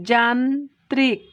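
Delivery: যান্ত্রিক said slowly with its syllables apart; drawn-out demo of যান্ত্রিক, no doubled sound; slow split. Shown as a demonstration. Teacher slowly spelling out যান্ত্রিক by sound. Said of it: "উচ্চারণটাকে এখানে ভেঙে নিয়েছি".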